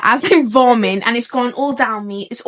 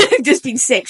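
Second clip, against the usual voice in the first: laughing confession. Retold or imitated. Laughing as she retells warning.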